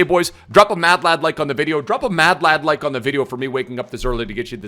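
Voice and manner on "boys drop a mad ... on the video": punchy, louder hype call for likes; hyped call-out. Shown as a demonstration. Hyping up viewers, louder catchphrase call-out. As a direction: shout the catchphrase up to the boys. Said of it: "like I always say".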